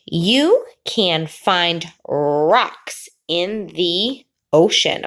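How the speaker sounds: put-on slow, drawn-out reading for children to follow; slow read-along. Shown as a demonstration. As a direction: pause before the last word. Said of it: "try to read along with me".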